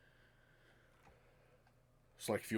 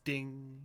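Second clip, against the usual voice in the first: higher, ringing "ding"; imitated ding; 5 semitones higher, 3 dB louder than usual. Game master recalls the strike's sound, imitated ding. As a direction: sound out a struck metal ding. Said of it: "You just heard the".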